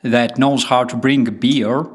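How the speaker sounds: folksy put-on American accent; hammed-up American country talk. Shown as a demonstration. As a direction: play it as a rural American. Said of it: "can you do a good American accent".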